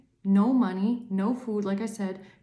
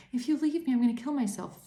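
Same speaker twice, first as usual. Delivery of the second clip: a lightly higher mocking whine; mock clingy plea; 4 semitones higher, faster than usual. Mocking the clingy partner, mild mock plea. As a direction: parody the desperate chaser, half-hearted. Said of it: "You're not running after no man going".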